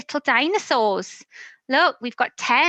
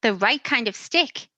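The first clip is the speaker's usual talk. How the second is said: a lightly voiced eager dog, higher; playful dog voice, mostly higher; 3 semitones higher than usual. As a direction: chirp it like a keen puppy. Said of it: "barks the dog".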